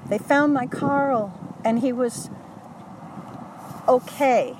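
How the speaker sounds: high, beaming announcement, drawn out slowly; imitating joyful friend. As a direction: voice a mother's happy relief. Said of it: "She was smiling from ear to ear".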